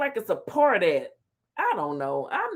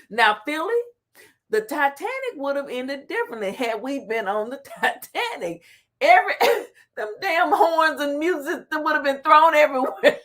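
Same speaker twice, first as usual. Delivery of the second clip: can't get the words out for laughing; reading through laughter; 3 semitones higher than usual. Real, not acted. Vlogger rereading a viewer's joke, laughing through it. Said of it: "I'm gonna read it again".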